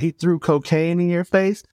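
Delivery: slow, high, rising disbelief; imitating astonished listeners, pitch climbing; incredulous question. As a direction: stretch out the question in mock amazement. EMTs react, laughing at the story.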